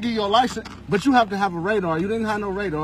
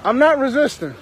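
loud, high, desperate protest; yelling that he's innocent; heated shouting; 3 semitones higher, 5 dB louder than usual. Real, not acted. Driver resisting arrest claim.

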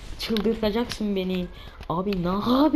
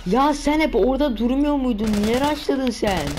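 loud, higher accusing question; indignant yell; 4 semitones higher, 5 dB louder than usual. Real, not acted. Gamer shouting at the enemy who rushed him, indignant yell. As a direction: call out the enemy for rushing.

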